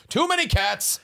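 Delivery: high loud stepdad yell; pull string toy. Acted. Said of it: "thirteen different sayings".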